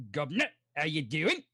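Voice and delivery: hammed-up British "governor" greeting; British accent. Trying another British voice for the group, hammed-up British. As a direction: try out a cheeky British voice.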